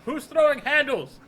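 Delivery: slow, high, loud movie quote; mock outrage, drawn out and high; hammed-up indignant yell. Quoting film character, laughing.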